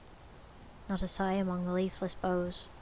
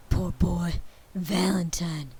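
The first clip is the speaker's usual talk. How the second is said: tender pity; 7 dB louder, slower than usual. A narrator's reading. Scrooge voiced, pity.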